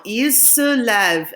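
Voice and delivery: teacher slows down; slow model. Shown as a demonstration. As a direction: say Il se lève slowly.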